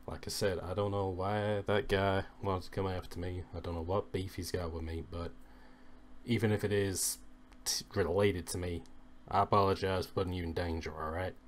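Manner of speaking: low, soft in-character confession; hushed, downbeat admission; subdued apology. Acted. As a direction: apologize quietly, keeping it down.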